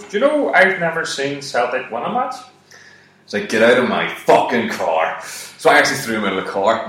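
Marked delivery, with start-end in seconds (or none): 0.0-2.3 high-pitched, put-on little brother voice; kid brother impression. Kid brother turning round in the car, high-pitched question. 3.5-5.2 mock angry order. Acted order to kid brother.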